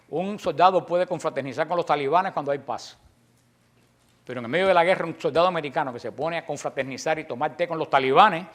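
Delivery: ordinary talk, nothing marked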